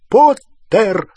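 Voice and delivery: loud, high, drawn-out call; enemy's shout. A narrator's reading. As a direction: shout the surname as you spot your foe. Враг окликает Поттера. (громкий высокий окрик)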